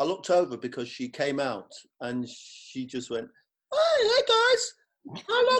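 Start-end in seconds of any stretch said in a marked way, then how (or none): 3.7-5.6 very high, loud put-on voice. Retelling how Flora came out and greeted them: Flora impression. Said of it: "This is my impression of Flora".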